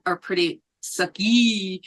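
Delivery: put-on light joking Mexican accent; lightly put-on Mexican accent. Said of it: "I say that in my new Mexican accent".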